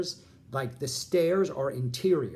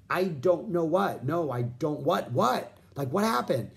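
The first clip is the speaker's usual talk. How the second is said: freaking out; 4 semitones higher than usual. Retold or imitated. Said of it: "I'm really freaking out right now".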